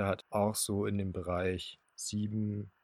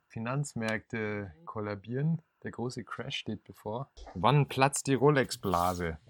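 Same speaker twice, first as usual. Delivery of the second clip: slow, ominous news-anchor doom; dramatic headline voice; slower than usual. Pretend. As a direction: announce the crash like breaking news.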